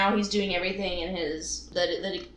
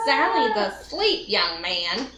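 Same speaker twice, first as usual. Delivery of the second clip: grandma voice; slower than usual. Retold or imitated. Grandma answering the phone to a drunk caller, mock prim. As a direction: lightly play a prim grandma.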